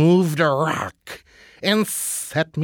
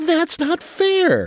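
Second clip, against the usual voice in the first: crying out, pitched very high; 11 semitones higher than usual. A mouse answering a snake, crying out. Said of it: "cried the mouse".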